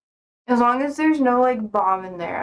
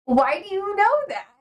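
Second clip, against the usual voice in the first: higher, suspicious mock question; quoted suspicion; 9 semitones higher than usual. Streamer quoting a suspicious post office clerk. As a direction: play the wary clerk. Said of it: "she was like".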